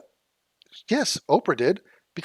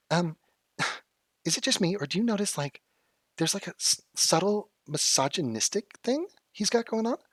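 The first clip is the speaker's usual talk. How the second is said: imitating her; 4 semitones higher than usual. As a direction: lightly mimic her earnest complaint. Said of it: "Let me, let me be her".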